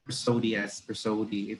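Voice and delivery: "prosody" as pruh-SOH-dee; stress on second syllable. Shown as a demonstration. Teacher giving their habitual pronunciation, "prosody" stressed on SO. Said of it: "I have been pronouncing the word".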